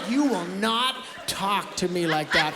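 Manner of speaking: slow, deliberate telling-off; mock-firm classroom reprimand; stern teacher. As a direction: lay down the law slowly. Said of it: "I was like".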